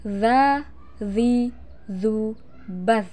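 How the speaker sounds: "za, zi, zu, baz" as separate voiced dental sounds; measured "za, zi, zu, baz" with tongue at the teeth; held voice. Shown as a demonstration. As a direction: hold the z in "baz" without leaking air. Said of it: "Tahan suaranya".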